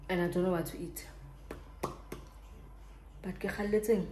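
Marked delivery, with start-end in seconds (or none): 3.2-4.1 talking while chewing gum; words round a wad of gum. Real, not acted. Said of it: "excuse the gum".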